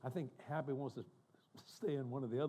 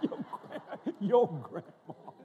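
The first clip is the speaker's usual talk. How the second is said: high giggle breaking into your grandma; laughing; 10 semitones higher, 3 dB louder, much slower than usual. Real, not acted. Tells young people it's grandma screaming, laughing hard. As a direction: laugh it out slowly, delighted.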